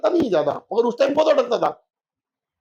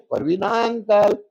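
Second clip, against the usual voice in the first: slow sing-song; much slower than usual. Retold or imitated. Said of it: "एक minute में बोला उसने".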